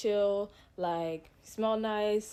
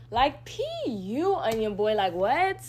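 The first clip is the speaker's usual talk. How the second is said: angry outburst; 5 dB louder, slower than usual. Real, not acted.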